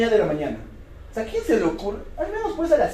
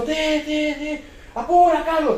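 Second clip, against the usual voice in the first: impatient father; 7 semitones higher than usual. Retold or imitated. Father urging son.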